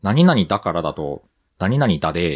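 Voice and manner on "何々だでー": quick native Nagoya lilt; Nagoya dialect. Shown as a demonstration. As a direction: demonstrate a casual Nagoya だでー. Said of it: "って言っちゃうかな".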